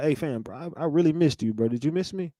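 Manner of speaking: hushed mocking sweet talk between men; mock clingy bro. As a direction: tease him as an overly sweet bro. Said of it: "what is your response to a man be like".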